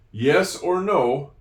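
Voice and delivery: yes or no, drawn out slowly; teacher slowing down to show the comma pause; slow, spaced out. Shown as a demonstration. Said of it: "because there's a little pause".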